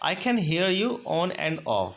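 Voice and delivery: slow, careful example; slow model phrase. Shown as a demonstration. Teacher modeling an on-and-off signal phrase, slow. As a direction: stretch it for learners. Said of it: "next example देखिएगा".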